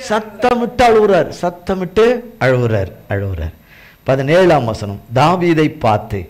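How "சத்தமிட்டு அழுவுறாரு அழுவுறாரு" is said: mock weep, lower and hushed; demonstrated weeping. Shown as a demonstration. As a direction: act out the crying on அழுவுறாரு. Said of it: "சத்தமிட்டு அழுவுறாராம்".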